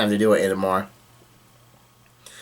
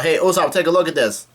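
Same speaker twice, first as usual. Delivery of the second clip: slightly raised retold call; mild mock yell; 4 semitones higher than usual. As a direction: call out lightly, without shouting. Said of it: "he yells out".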